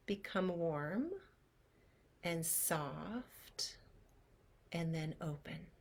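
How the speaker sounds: breathy, hushed and slow; hushed meditation whisper; soft whisper. Shown as a demonstration. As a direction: let the words dissolve into a whisper. Guided meditation softening.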